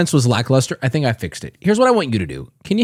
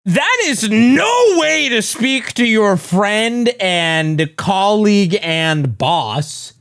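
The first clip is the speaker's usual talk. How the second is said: mock indignation; slower than usual. Mock-scolds a friend over greeting.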